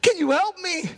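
high-pitched acted plea to heaven; acted prayer. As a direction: imitate someone praying to God for help. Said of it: "she's probably praying".

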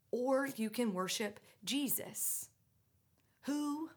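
hushed, breathy confiding; whisper. Real, not acted. Preacher offering the congregation the other choice, whispered. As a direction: drop to a whisper to draw them in. Turning to the quiet alternative.

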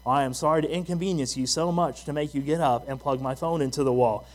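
imitating an eye-rolling wife; mock-sorry, laying it on thick; sarcastic apology. Wife to reluctant husband, sarcastic apology. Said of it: "rolling her eyes going".

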